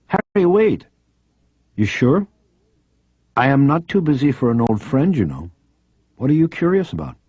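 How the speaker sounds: a keen journalist pressing a friend; eager female reporter. Acted. Reporter urging Harry to stay on the phone, insistent.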